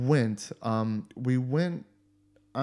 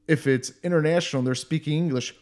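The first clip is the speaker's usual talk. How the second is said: salty retort; 3 semitones higher, 4 dB louder than usual. Retold or imitated. Retelling a salty reply to a job interviewer, exasperated. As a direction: snap back at the interviewer, retelling it. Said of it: "I was kinda salty at that point".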